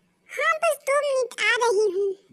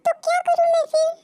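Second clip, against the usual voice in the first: laughing retort; 6 semitones higher, 5 dB louder than usual. Acted. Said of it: "तुम हंस रही हो".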